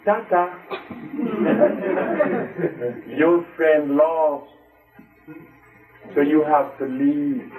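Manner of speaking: slow, mocking farewell with a laugh; mocking dismissal. Politician mocking a healer, slow and amused. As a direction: drag it out like a smug official. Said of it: "Eugenia Charles came ... and saying".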